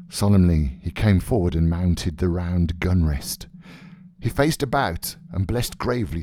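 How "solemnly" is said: usual speaking voice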